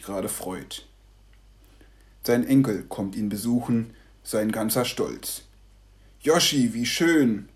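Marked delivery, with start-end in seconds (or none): 6.2-7.5 glad call. Acted. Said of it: "ruft er aus".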